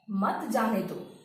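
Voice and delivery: "मत जाने दो" set apart, slow, falling at the end; separate phrase after pause. Shown as a demonstration. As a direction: say "मत जाने दो" slowly as its own order. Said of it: "यहाँ पे रोको के बाद लगा देने से". ("मत जाने दो" अलग से, धीरे-धीरे)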